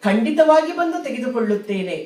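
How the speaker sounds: emphatic vow. Acted. Brahmin's solemn vow quoted.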